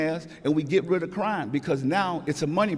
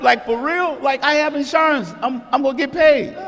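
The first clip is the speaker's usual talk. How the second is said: high, loud, gleeful; excited retort; 9 semitones higher, 5 dB louder than usual. Retold or imitated. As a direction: crow about getting paid, much higher. Retelling his carefree reply.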